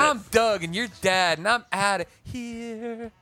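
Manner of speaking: high, loud sketch-character voice; Doug. Retold or imitated. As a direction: declare it big, stretching the last line out slowly. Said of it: "the Doug that was like".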